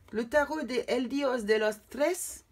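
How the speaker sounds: slow, careful Spanish-accented reading of the deck name; clumsy Spanish accent. Shown as a demonstration. Tarot reader naming her Spanish deck, in an unsure Spanish accent. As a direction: sound the Spanish title out hesitantly, in a Spanish accent. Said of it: "Excusez-moi pour mon accent".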